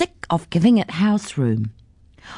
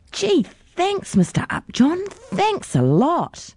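put-on high-pitched, grateful child; delighted thanks; 11 semitones higher, slower than usual. A narrator's reading.

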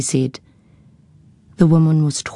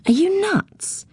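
incredulous; slower than usual. A narrator's reading. Zoe's incredulous retort.

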